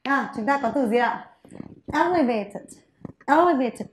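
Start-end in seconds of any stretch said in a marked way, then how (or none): 1.9-3.9 "Elevated" stressed on the first syllable, EL-evated. Shown as a demonstration. Teacher models the word for students, first-syllable stress. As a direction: hit the opening EL of "Elevated". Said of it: "Âm tiết thứ nhất ạ".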